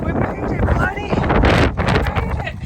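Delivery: high, loud happy cheer; excited. Real, not acted. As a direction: celebrate with the dog. Celebrating with the dog.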